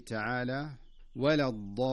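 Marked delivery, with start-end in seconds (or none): 1.2-1.9 Quranic demo, الضالين held long, Dad never sliding into Za; correct Dad recitation. Shown as a demonstration. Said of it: "ينبغي أن تؤدى ضادا صحيحة". (تلاوة «الضالين» بضاد صحيحة ومد طويل)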